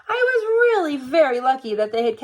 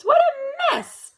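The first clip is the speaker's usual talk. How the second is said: dismayed exclamation; 14 semitones higher, slower than usual. A narrator's reading. Seeing snow everywhere.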